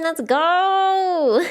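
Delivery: high, loud hype shout; excited cheer. Real, not acted. Streamer hyping chat about her giant slideshow, loud excited cheer. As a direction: cheer it like a victory.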